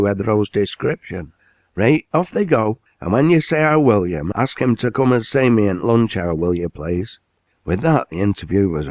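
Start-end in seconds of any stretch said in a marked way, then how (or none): 1.7-7.2 commanding mill owner. Acted. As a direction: lay down the law to the works manager. Owner dismisses them.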